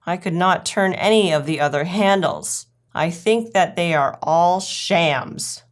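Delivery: lightly voiced puzzled storybook dog; mildly put-out character voice; puzzled, fretting Duchess. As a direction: fret over it, stretching the key words. Duchess frets over missing pie.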